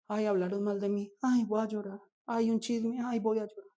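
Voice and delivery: lightly whiny church crybaby; mock crybaby. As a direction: mimic a crybaby who whines over gossip. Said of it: "Nosotros sí somos muy chillones".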